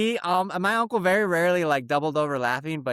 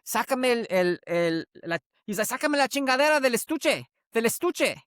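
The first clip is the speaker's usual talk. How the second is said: retold dad yelling; 7 semitones higher than usual. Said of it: "the dad was yelling at his son".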